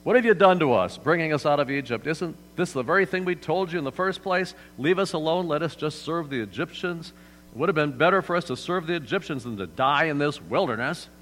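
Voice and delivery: loud, high panicked crowd yelling; yelling Israelites. Retold or imitated. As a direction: yell it like a terrified people cornered at the sea. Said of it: "they're yelling out at Moses".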